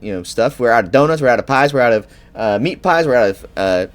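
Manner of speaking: high, loud, chatty country baker; bright eager shop owner; folksy baker voice. Acted.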